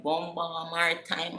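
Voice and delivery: high-pitched excited exclamation; thrilled at the offer, pitch lifted; retold burst of excitement. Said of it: "I'm getting excited".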